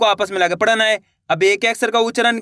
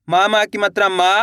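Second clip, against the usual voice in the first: syllable-by-syllable reading. Shown as a demonstration. Teacher showing beginners the second part, syllable by syllable. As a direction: spell it out, final मा held long. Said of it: "दो दो करके ही पढ़ सकते हो".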